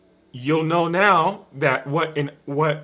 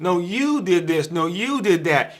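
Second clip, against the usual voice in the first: mock blame trading; 3 semitones higher than usual. Acting out back and forth.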